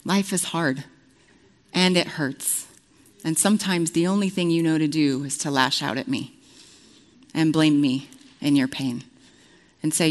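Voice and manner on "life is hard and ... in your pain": softer, tender and calm; gentle voice of God. Retold or imitated. God comforts Tabitha in her pain, softly and tenderly. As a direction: speak softly like holding a hurt child. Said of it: "the Lord says".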